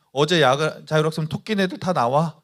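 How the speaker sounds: retold teacher yelling for the truants; teacher calling out. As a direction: bark out the order like a strict teacher. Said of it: "그러는 거예요".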